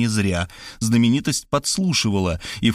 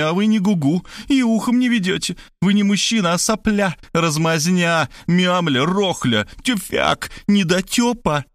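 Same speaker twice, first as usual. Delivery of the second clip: high, outraged scolding; insulting tirade; 8 semitones higher than usual. A narrator's reading. Markhalyova berates the narrator in his own house, outraged. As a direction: hurl each insult in turn. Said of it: "Столько оскорблений в секунду".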